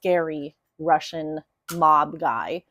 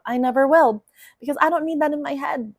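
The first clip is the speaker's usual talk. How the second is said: emphatic refusal; 7 semitones higher, faster than usual. Real, not acted. Refusing to ever watch it.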